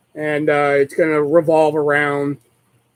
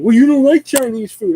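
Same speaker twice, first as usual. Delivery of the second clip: mock mom; 9 semitones higher, 5 dB louder than usual. Mom voiced in retold argument.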